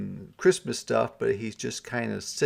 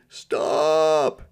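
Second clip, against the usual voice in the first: choked; 6 semitones higher, 6 dB louder than usual. Acted. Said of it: "interrupted Santa in a choked voice".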